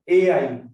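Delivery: A I as two separate loud letters; letters said separately. Shown as a demonstration. Teacher showing students two letters sounded apart, A I said separately. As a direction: say A and I apart, loudly. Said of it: "pronounce them separately".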